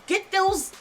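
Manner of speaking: loud angry rant rising to a high shout; furious, emphatic pleading at full volume; real anger. Real, not acted. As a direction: erupt in outrage, then keep pressing hard. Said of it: "but now I'm angry".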